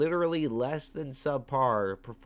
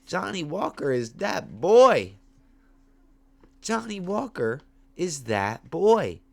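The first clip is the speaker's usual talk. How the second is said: loud, high, slow hype shout; hyped declaration; 6 semitones higher, 7 dB louder than usual. Retold or imitated. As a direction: belt it out like a proud fan. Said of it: "And I'm like".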